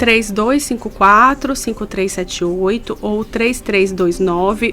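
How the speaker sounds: slow, measured digit-by-digit reading; careful dictation. Real, not acted. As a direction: dictate it for listeners writing it down. Repeats phone number on request.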